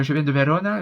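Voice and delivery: imitated Veronese accent with rolled r in Vérone; lightly put-on Italian accent; Italian accent from Verona. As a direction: mimic an Italian woman from Verona. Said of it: "son accent, euh, de Vérone".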